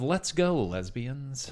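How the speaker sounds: a gentle cheer for the crowd; nice Billy Eichner. Acted. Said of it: "The nice Billy Eichner".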